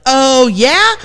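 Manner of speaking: high, mock-petty dredging up an old hurt, last line slow; petty grudge. Wife months later to husband, mock-petty high grudge voice. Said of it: "be like".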